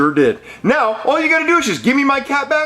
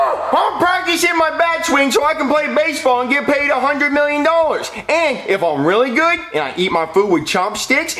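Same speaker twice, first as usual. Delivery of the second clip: put-on bratty kid voice. Child character Jeffy boasting.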